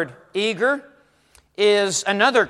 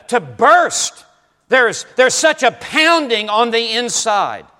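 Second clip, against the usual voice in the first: higher-pitched, emphatic preacher voicing Paul; fired-up passion; 3 semitones higher than usual. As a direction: act out Paul's heated eagerness, punching key words. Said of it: "to be passionate and to be heated up".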